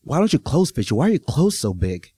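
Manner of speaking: lightly voiced nosy lady; rude woman voice. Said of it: "woman's verbal assault".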